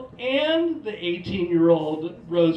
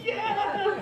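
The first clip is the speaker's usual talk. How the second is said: very high, drawn-out yes; hammed-up glee; mock thrilled onlookers; 12 semitones higher than usual. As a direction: squeal it with laughing delight. Europeans thrilled by the cliche.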